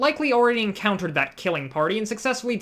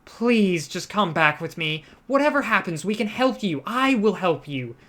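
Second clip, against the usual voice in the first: pleading; 2 semitones higher than usual. Acted. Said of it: "with a pleading expression".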